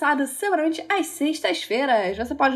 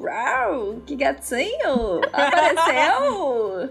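swooning; much slower than usual. Retold or imitated. Swooning over crush in books.

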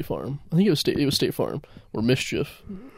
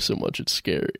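whispered, softer ending; spooky whisper; 6 dB quieter than usual. Pretend. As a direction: whisper it like a scary secret. Quoting the Geico slogan spookily.

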